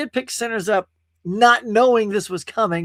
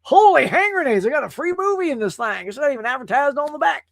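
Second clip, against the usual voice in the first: surprised buyer; 7 semitones higher, 3 dB louder than usual. Retold or imitated. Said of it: "Somebody's gonna open and go".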